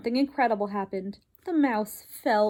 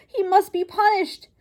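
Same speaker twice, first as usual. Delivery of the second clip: high, loud furious demand; furious shout; 5 semitones higher, 5 dB louder than usual. Acted. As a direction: bellow it, demanding punishment. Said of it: "shouted Lester".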